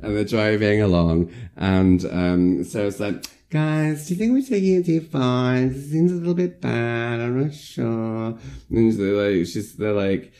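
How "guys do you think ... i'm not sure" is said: worried. Retold or imitated. Sarah nervously voicing doubts.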